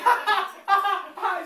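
imitating a brother's teasing ha ha; lightly mock the laughter at him; a hint of a mocking sibling laugh. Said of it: "he's just laughing at me".

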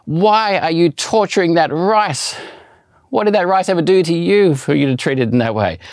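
hammed-up scandalised cry over ruined rice; Uncle Roger reaction. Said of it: "kinda reacted like Uncle Roger on YouTube".

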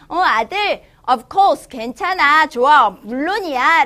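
a dad happily saying yes. Acted. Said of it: "부를 때".

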